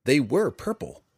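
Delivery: high, shaky insistence. A narrator's reading. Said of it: "shaky voice".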